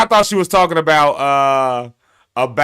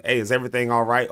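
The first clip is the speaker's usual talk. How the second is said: concerned check-in; 5 semitones lower, 5 dB quieter, faster than usual. Shown as a demonstration. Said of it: "That could be a question or a statement".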